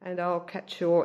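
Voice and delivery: stuffed-up nose, nasal tone. Real, not acted. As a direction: talk through a blocked nose. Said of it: "Excuse my nasally voice".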